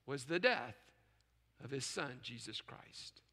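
hushed preacher's fade. Real, not acted. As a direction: voice sinking to a hush. Preacher drops to near-whisper climax.

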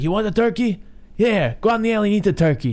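high-pitched mock outburst; imitating angry Paulie. Retelling Paulie throwing the turkey out, mock anger. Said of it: "He's like".

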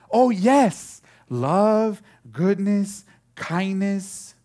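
high, loud burst of recognition; excited child. Retold or imitated. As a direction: imitate a little girl eagerly listing answers. Acts daughter suddenly getting the answer.

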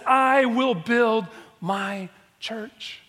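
I will build my church, slow and rising; slow emphatic quote. Shown as a demonstration. Pastor quoting Jesus to congregation, slow and weighty. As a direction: draw out each word. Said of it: "That Jesus said".

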